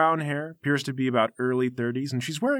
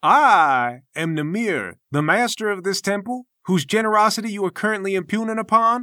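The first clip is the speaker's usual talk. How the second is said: grand, higher-pitched master announcing himself; pompous temple master; 7 semitones higher, 4 dB louder than usual. Acted. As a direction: play an affronted, self-important temple master. Game master voices temple master.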